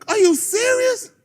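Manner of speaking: high, slow disbelieving laugh; can't believe what he's hearing; half-laughing mock disbelief; incredulous. Real, not acted. Incredulous at player's demand.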